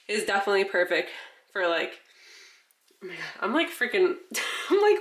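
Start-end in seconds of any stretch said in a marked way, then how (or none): 3.0-5.0 winded, breathless talk; gasping between words; out of breath. Real, not acted. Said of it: "winded just talking because I'm so congested".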